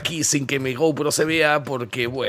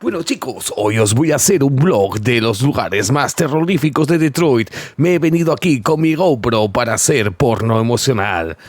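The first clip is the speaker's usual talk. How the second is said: vlogger voice; 5 dB louder than usual. Acted. Mock vlogger intro to camera.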